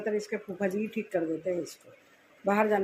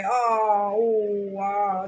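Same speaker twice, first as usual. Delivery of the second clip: mock pain cries; 3 dB louder, much slower than usual. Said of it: "चिल्ला चिल्ला के जोर से".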